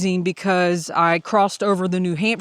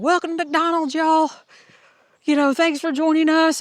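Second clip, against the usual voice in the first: high-pitched mock counter-worker greeting; customer service greeter; 8 semitones higher than usual. Hiker behind the McDonald's counter welcoming customers, customer service voice. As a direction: play a chirpy fast-food greeter, pitched well up. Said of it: "I can do customer service".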